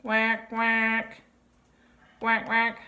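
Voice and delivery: quacky duck voice; duck quack. Shown as a demonstration. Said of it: "Duck says".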